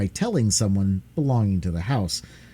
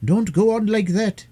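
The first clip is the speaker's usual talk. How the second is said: a touch of fierceness, higher and sharp; almost fierce; 12 semitones higher, 4 dB louder than usual. Acted. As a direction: scold the boy, mildly fierce. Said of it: "almost fiercely".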